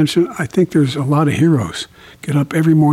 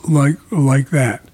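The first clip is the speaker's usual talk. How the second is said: stuttering on the repeat; demonstrating a stutter; slower than usual. Shown as a demonstration. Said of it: "I stuttered badly, like that".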